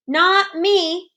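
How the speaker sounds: high, loud protest; crying out. Acted. Froggy protesting to his mother, loud. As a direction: blurt it out in protest. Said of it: "cried Froggy".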